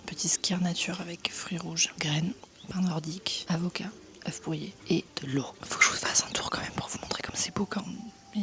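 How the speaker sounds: hushed close-mic whisper touring the buffet; right in your ear. Real, not acted. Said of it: "je vous le fais en mode A S M R". (chuchotement à l'oreille)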